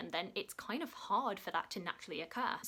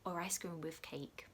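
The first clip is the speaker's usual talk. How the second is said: slow, secret whisper; slow whispered confession of a favourite dessert; 6 dB quieter, slower than usual. Real, not acted. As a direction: breathe it slowly like a guilty treat. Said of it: "dessert choice".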